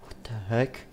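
whispering in surprise; whispered Shadow Freddy. Acted. Shadow Freddy whispering in surprise at the crowd. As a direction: breathe it out under the breath. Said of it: "He's like".

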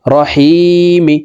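রহিমি slowly, with a short র, not রা. Shown as a demonstration. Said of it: "এখানে র কে রা বলা যাবে না".

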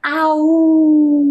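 teacher imitating a dog; dog bark imitation. Shown as a demonstration. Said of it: "Como que ele faz?".

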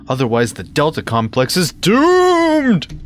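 hammed-up prophecy of doom; melodramatic reading. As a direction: build to a drawn-out DOOMED. Hammed-up reading of game text.

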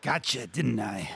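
out of breath, slow; panting. Acted. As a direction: gasp the words out, winded. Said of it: "Corbin panted".

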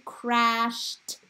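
"crashed" drawn out with a detached final "t"; t-sound ending. Shown as a demonstration. Teacher leading class to say with her, split-off "t". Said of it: "Say with me".

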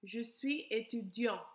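Je suis étudiant with the T dropped; silent final T. Shown as a demonstration. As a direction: say "étudiant" ending on the nasal vowel, no T. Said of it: "if I am a male".

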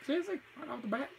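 high, loud disbelief; surprised. Real, not acted. Boss suddenly powers up.

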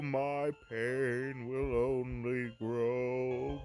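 slow, grave ancient voice; solemn spirit voice. Acted. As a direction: speak slowly like a sorrowful spirit.

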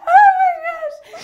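high shocked shout; loud shout. Real, not acted. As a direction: scream it out in shock. After water sputter mishap.

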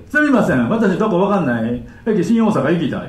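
projected broken Japanese request; full-voiced, garbled intonation; big voice. Shown as a demonstration. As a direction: boldly call out the botched sentence. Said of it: "でも大きな声で".

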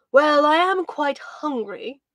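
slow, drawn-out, hesitant owl voice; hemming owl. Acted. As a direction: stall like a dithering old owl. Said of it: "Tuluk hemmed and hawed".

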